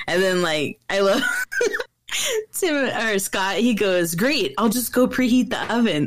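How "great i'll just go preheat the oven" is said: mock-enthusiastic sarcasm, playfully imitated; sarcastic. Dad answering his son's cookie request for Santa, sarcastic. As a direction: imitate a dad's sarcastic retort. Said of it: "all sarcastic".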